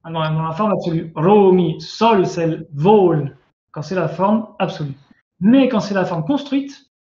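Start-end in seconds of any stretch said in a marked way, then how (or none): 1.1-3.4 Romi, sol, sel, vol each with a firm stressed vowel; tonic accent demo. Shown as a demonstration. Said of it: "le mot prend l'accent".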